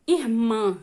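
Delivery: "irmã" with weight on the final "mã"; last-syllable stress. Shown as a demonstration. Teacher giving an oxítona example, "irmã" stressed on the last syllable. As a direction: land firmly on the end of "irmã". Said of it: "Qual é a sílaba tônica? É a última".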